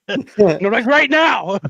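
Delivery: laughing. Real, not acted. Joking laughter with co-hosts.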